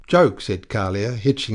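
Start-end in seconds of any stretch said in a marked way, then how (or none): 0.1-0.4 scornful. Acted. Scornful retort.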